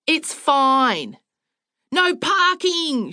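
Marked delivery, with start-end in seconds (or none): 1.9-3.1 high, slow, drawn-out holler; screaming back. A narrator's reading. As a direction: scream it back higher, stretching "parking". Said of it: "she screamed back".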